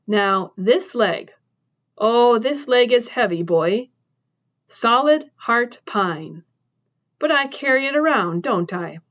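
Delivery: a hint of a tough woman making her point; woman shaming the boy about the heavy bat; lecturing woman. Woman scolding about her leg.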